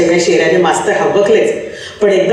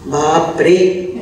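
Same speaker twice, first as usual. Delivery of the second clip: dismay; 5 semitones lower, much slower than usual. Acted. Teacher's inner dread.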